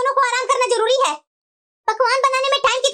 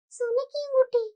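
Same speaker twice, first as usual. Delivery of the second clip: सोने की अंगूठी muttered much softer to herself; muttered repeat; 6 dB quieter, slower than usual. Acted. Younger bhabhi mutters the news to herself, softly. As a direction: echo सोने की अंगूठी quietly, stung.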